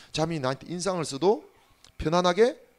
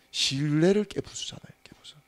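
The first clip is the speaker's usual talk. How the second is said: urgent whispered emphasis; hushed warning to the church. Real, not acted. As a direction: whisper it like a secret.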